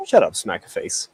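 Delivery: low, gruff orc growl. Acted. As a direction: snarl it like an orc. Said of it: "my regular orc".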